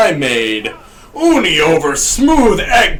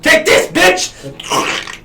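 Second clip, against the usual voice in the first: slow taunt; 8 semitones higher, much slower than usual. Acted. Colonel character taunts.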